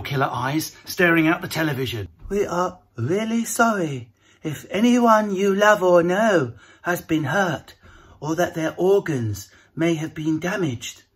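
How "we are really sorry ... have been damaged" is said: mock Priti Patel. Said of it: "Priti Patel made her first appearance".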